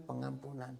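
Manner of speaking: "pengampunan" repeated softly and gently, falling away; soft echo. Acted. Preacher repeating the key word to the congregation, softly. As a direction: let "pengampunan" sink in quietly.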